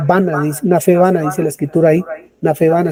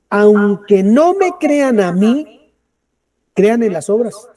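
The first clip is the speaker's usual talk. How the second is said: aunque no me crean a mí spoken very slowly and higher; slow emphatic reading; 4 semitones higher, much slower than usual. Shown as a demonstration. Preacher rereads the verse slowly for emphasis. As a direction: stretch every word to stress the point. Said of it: "mire lo espectacular de esto".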